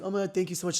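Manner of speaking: lightly acted, flattered gush; flattered thanks. Thanking a man for compliments, flattered.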